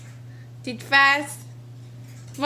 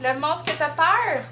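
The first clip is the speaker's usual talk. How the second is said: gentle reassuring; 3 semitones higher, slower than usual. Real, not acted. Mom soothing scared toddler.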